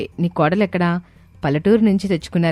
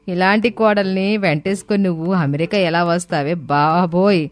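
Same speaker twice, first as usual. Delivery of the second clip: mocking. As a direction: ridicule the daughter-in-law to her mother-in-law. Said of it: "ఎగతాళి చేసి వెళ్ళిపోతారు". (ఎగతాళిగా)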